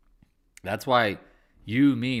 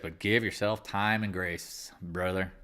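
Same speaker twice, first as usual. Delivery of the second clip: self-reassurance; 3 semitones lower, 4 dB quieter, slower than usual. Real, not acted. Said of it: "I'm talking to myself".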